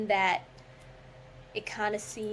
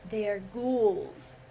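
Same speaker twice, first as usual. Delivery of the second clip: poem reading; 2 semitones higher than usual. Acted. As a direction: declaim the verse with theatrical weight. Dramatic reading of Poe poem.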